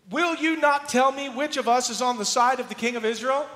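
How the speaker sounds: loud, high, furious demand; the king of Aram demanding answers from his officers, furious shout; enraged king. Acted. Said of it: "This enraged the king of Aram".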